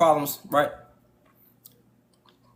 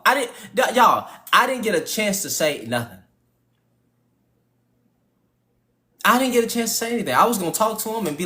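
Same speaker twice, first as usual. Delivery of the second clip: high mock old man rant; 5 semitones higher than usual. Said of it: "continuing the mock rant".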